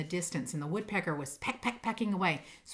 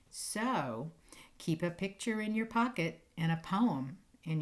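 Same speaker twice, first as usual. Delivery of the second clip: gentle poem reading. Acted. Teacher reading a bedtime poem to her class, gentle and lilting. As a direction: read it like a lullaby for children.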